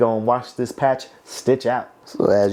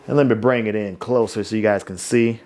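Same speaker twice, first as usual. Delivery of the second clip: usual speaking voice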